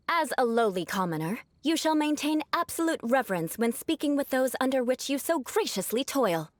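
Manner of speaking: lofty, archaic noble address; stilted aristocratic speech. Shown as a demonstration. Noble demonstrating clan etiquette to a commoner, stilted and haughty. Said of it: "purposefully using their awkward way of speaking".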